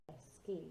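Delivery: "esquí" ending like English "key". Shown as a demonstration. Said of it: "like a key in the door".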